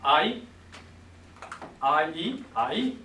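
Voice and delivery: "Ai" drawn out and run together into an I sound; sounding out a diphthong. Shown as a demonstration. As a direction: blend "Ai" slowly into "I". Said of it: "if you run them together".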